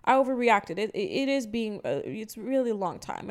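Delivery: put-on high, fumbling old woman apology; lightly voiced neighbor, flustered; mock flustered old lady. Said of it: "and she's like".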